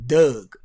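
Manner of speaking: "dog" said as "Doug", drawn out, slow; Baltimore dog. Shown as a demonstration. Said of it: "I say".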